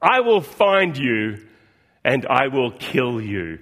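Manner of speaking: slow, deliberate Liam Neeson threat, lightly done; quoting Liam Neeson's threat. Retold or imitated. Pastor voicing the father threatening kidnappers, slow mock menace. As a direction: let each threat land, mildly. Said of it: "he says".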